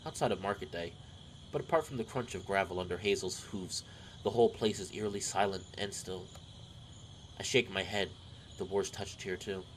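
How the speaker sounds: measured, storybook narration; story narration. A narrator's reading. Narrator setting the scene of a village homecoming, measured storytelling. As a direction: read the tale aloud evenly. Reads visual novel narration.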